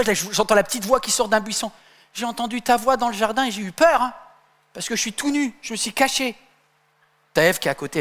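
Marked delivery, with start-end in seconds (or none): 2.1-6.4 higher, lightly voiced timid Adam; small voice. Hiding Adam answering God in a small voice. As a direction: answer meekly from behind a bush. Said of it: "Il répondit avec une petite voix".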